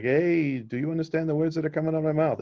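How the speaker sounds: a touch of Chris Tucker, fast and exasperated; quick frustrated movie cop, lightly done. Retold or imitated. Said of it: "He's like".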